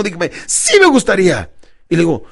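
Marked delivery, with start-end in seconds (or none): 0.5-1.5 louder, higher, drawn-out declaration; enthusiastic. Shown as a demonstration. Coach showing a client how to answer, enthusiastic. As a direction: say it slowly with real gusto. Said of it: "Entonces dígamelo con entusiasmo".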